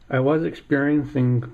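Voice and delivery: talking around a paintbrush in mouth. Real, not acted. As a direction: speak with a brush between the teeth. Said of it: "I got a paintbrush in my mouth here".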